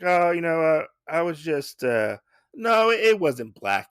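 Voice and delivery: mock fluster, pitch and volume up; flustered backpedaling. Usagi backtracking after remarking on Jay's blade, flustered and high.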